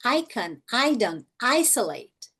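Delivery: "Icon, idon, isolate" opening on a clear ai; careful demo words; long I examples. Shown as a demonstration. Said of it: "Som longo da letra I".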